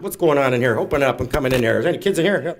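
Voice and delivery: hammed-up authority; mock official barge-in. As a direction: burst in like you own the place. Barging in as social worker.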